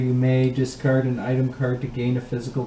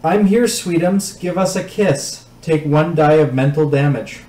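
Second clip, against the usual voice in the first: lightly voiced sweet old granny; sweet little granny voice; 2 semitones higher than usual. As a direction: coo it like a kindly grandma. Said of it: "A sweet little granny voice says".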